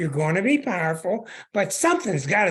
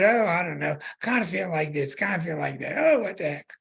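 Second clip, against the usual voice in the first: mildly breezy indecision; a touch of carefree waffling; lighthearted. Acted. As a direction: toss it off with an easy shrug. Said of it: "Venus in Gemini is kind of lighthearted".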